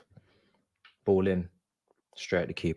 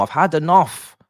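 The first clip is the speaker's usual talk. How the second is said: "had" yelled high and loud; furious shout; 9 semitones higher, 8 dB louder than usual. Real, not acted. Fan yelling at his team, furious shout. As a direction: scream it at the screen, fed up.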